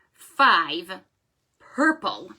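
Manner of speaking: five and purple hit loud and slow; dramatic reveal. Shown as a demonstration. Librarian building suspense for the children. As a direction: punch each word for the reveal.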